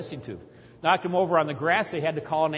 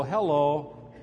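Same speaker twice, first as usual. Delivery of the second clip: mock missionary greeting; slower than usual. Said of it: "and they'll go".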